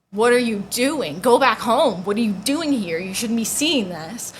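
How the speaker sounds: loud, alarmed retold scolding; freaking-out dad. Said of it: "So he's freaking out".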